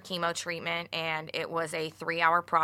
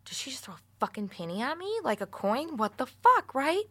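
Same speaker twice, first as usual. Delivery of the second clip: mock disbelief; 7 semitones higher than usual. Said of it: "I'm like".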